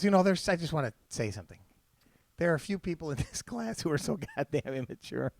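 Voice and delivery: soft, low imitation of a grave announcement; mock-solemn teacher, hushed and low; somber teacher. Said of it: "he's very somber".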